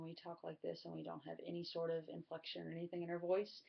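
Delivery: level pitch with no inflection; monotone. Shown as a demonstration. Speaker showing students what vocalics covers, monotone. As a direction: keep every word on one note. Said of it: "whether we're monotone".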